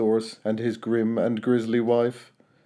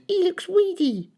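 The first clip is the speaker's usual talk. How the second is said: grumbled. A narrator's reading. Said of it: "she grumbled".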